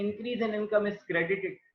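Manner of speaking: slow, deliberate recital of the rule; slow quoted rule. Shown as a demonstration. Teacher recalling the modern approach rule, slow recital. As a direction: recite it slowly like a textbook. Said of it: "modern approach क्या कहती थी".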